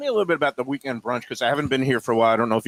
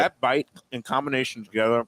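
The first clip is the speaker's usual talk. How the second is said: mouth full. Real, not acted. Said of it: "I'm talking with my mouth full".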